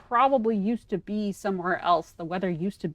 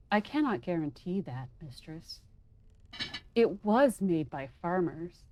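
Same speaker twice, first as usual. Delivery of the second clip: lightly monotone robot voice. Acted. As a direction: read it like a flat machine. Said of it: "deliver the lines in a, in a robotic voice".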